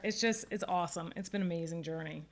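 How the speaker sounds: teary-eyed. Real, not acted. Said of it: "teary-eyed again here".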